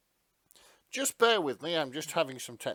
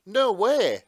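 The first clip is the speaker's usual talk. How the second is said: surprised; 10 semitones higher, 14 dB louder than usual. Real, not acted. Surprised by Star Trek crossover.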